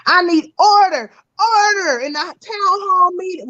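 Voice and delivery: bang the gavel, demand order; calling for order. Real, not acted. Host calls rowdy panel to order.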